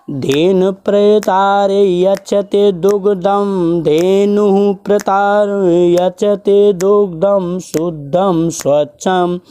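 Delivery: slow, measured chant of a Sanskrit shloka; slow verse recitation. Shown as a demonstration. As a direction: recite the verse slowly, syllable by syllable.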